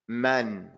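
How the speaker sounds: "Man" with a full open fatha vowel; mouth opened on fatha. Shown as a demonstration. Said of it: "you have to open up your mouth".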